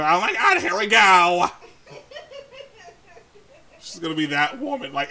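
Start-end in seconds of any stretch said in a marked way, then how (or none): 0.0-1.5 higher, louder exasperated groaning; mock exasperation. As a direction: complain as the fed-up sister. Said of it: "she's just gonna be".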